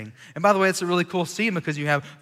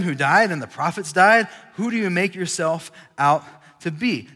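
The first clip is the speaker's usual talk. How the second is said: angry accusation; 2 semitones higher, 5 dB louder than usual. Acted. Angry Jews confront Jesus.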